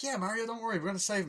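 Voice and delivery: high-pitched imitated cheer-up; mock reassurance. Friend comforting worried Mario, high mock-reassuring voice.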